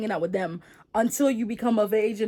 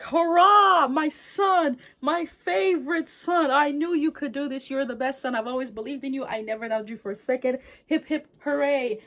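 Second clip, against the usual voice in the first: higher, louder hammed-up cheer; proud father cheering; 6 semitones higher, 3 dB louder than usual. Father praising his son for killing the demon, hammed-up cheer. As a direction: ham it up as a gushing proud dad.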